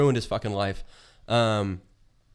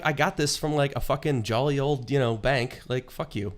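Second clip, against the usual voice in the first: mock outrage; 4 semitones higher than usual. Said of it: "I'm like".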